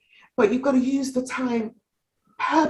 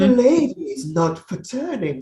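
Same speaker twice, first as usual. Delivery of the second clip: lightly voiced Thatcher, a bit lower and firm; a hint of the Iron Lady's lowered authority; Margaret Thatcher; 3 semitones lower than usual. Quoting Thatcher to an interviewer, lightly imitated low voice. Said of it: "So she brought it way down".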